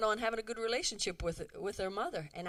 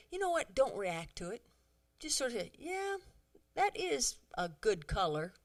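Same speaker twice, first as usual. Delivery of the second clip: calm advice; 3 dB quieter than usual. Retold or imitated. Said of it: "Missus Evans said".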